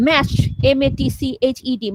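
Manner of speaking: ম্যাশড said and then spelled, a little slow. Shown as a demonstration. Teacher spelling a word for students. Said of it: "তারপরে হচ্ছে".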